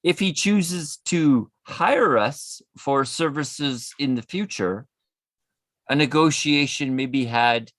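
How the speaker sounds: hint of a demon reading a letter; demonic layered voice. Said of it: "let me put a demon voice on".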